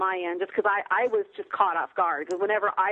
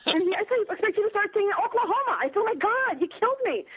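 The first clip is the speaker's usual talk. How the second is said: high, giggly retelling of a scolding; laughing protest; 11 semitones higher than usual. Retold or imitated. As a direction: squeal it out between laughs. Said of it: "And I'm like".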